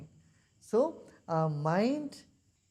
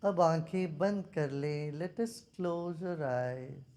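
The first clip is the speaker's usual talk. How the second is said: measured guidance with long silences; guided meditation. Real, not acted. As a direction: settle them into stillness, taking your time. Leads a meditation.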